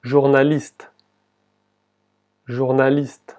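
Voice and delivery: "Journaliste" ending on an audible T, final E silent; "Journaliste" with no vowel after the final T. Shown as a demonstration. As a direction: say "Journaliste" in French, stopping on the T. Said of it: "solo la T se, se escucha".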